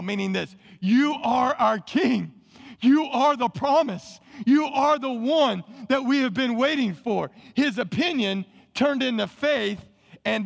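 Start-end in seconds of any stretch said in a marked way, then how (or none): 0.8-7.3 raised, slow, emphatic declaration; preacher's ringing acclamation; fervent proclamation. Acted. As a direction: proclaim it with conviction, pitch lifted. Voicing Nathanael's declaration of faith.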